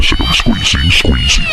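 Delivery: voice going up. Pretend. Host pretends nut squeezing pushes his voice up. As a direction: pitch jumps way up on the effect. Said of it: "My voice is starting to go up".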